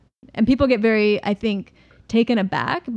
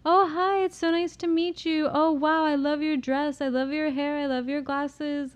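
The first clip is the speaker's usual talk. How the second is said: much higher, gushing party voice; bubbly neurotypical persona; 6 semitones higher than usual. Retold or imitated. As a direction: gush over a new acquaintance. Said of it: "And I'm very like".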